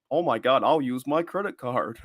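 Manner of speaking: lightly attempted California accent, slowing at the end; Cali accent. Shown as a demonstration. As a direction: have a half-hearted go at a Cali accent. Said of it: "the Cali accent".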